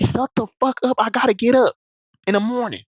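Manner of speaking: mock irritated snap. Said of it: "she be like".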